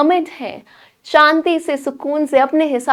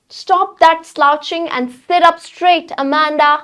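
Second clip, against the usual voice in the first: slow, firm scolding; mother scolds Amanda to sit up straight; 4 semitones higher, much slower than usual. Acted. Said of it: "तो जिस tone में मैं कह रही हूँ ... डांट के कह रही है". (डांटती हुई माँ)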